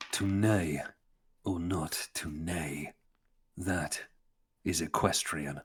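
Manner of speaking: slow, hushed mock Shakespeare; mock olde english. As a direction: recite it like a solemn bard. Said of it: "my favourite one".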